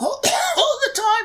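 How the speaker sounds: very high, scratchy, hoarse voice. Recalling playing a bard the day they had laryngitis: imitating a laryngitis voice. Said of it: "my bard that night was like this".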